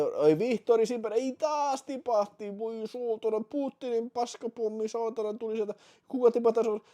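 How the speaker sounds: high, loud frantic race commentary; cheering the marble race as it collapses; excited. Real, not acted. Streamer groaning at the marble race, high and frantic.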